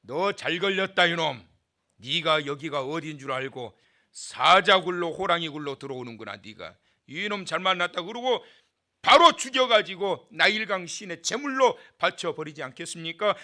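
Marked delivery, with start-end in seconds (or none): 0.0-8.0 gloating princess. Pretend. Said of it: "그러면 어떻게 할까요?".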